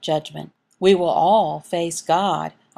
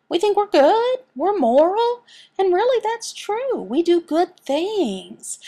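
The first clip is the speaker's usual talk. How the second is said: rising preaching fervor; 10 semitones higher, 3 dB louder than usual. Acted. Preacher mocks our self-belief.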